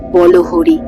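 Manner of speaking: high-pitched distant-style chant call; funeral cry. A narrator's reading. Funeral cry in the rainy night, high called chant. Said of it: "শব্দটায় কাঁটা দিয়ে উঠল".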